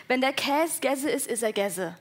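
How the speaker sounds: Hessian dialect saying, drawn out; hessischer Dialekt. Shown as a demonstration. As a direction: recite a folksy saying in broad Hessian dialect. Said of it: "dein hessischer Dialekt". (Spruch in breitem hessischem Dialekt, gedehnt)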